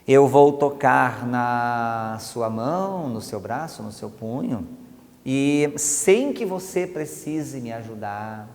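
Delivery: slow, fading soothing instruction; calm guiding command, trailing off; hypnotic command. Shown as a demonstration. Hypnotist giving the arm-drop instruction, slow and soothing. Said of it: "O comando que eu vou dar é o seguinte".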